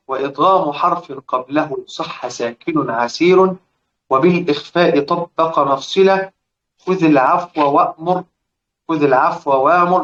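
slow measured recitation of the poem lines; recited verse. Acted. Teacher reciting the Shatibiyya verse to students, slow recitation. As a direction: chant the verses slowly, drawing out the end words.

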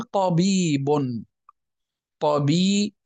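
طبيب sounded out slowly by syllable, ending in -un; example word pronounced. Shown as a demonstration. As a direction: say طبيب as "ta-bii-bun", stretched. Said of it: "مثلًا قل".

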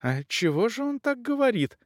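high, drawn-out outrage; outraged countess, high-voiced; indignant cry. A narrator's reading. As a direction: pitch it right up and stretch the insult. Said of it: "краснея от негодования".

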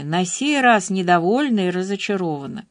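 ordinary delivery, nothing marked

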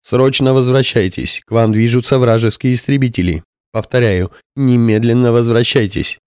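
urgent order through static; radio breaking up. Acted. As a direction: shout it through a hissing radio. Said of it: "Шипение то усиливалось".

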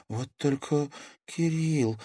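slow, heavy-hearted line, a touch dimmed; turning gloomy. A narrator's reading. Natasha thinking of lost Kirill, gloomy. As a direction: let the mood sink as you say it. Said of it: "помрачнела Наташа".

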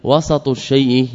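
وسط as "wasat", with an a after the s; وسط with a vowelled seen; open middle vowel. Shown as a demonstration. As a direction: say وسط in two syllables, wa-sat. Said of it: "يعني بفتح السين".

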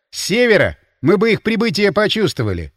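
doubtful. A narrator's reading. Линь doubts northerners could arrive unnoticed, sceptical. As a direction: question the idea with open doubt. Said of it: "засомневался Линь".

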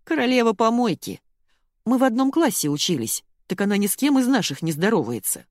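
mocking gossip about Alyona; scornful gossip. A narrator's reading. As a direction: sneer at the snobbish classmate. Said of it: "Марина закатила глаза".

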